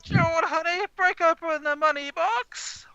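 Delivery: high, drawn-out yell; hammed-up screeched request; calling through the house. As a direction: holler to your husband upstairs. Woman yells to Gerald elsewhere.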